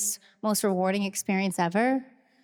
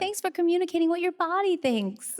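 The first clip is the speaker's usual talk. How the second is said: high, encouraging parent voice; praising a child; 8 semitones higher than usual. Retold or imitated. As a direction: praise a little kid, pitched up. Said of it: "we're like".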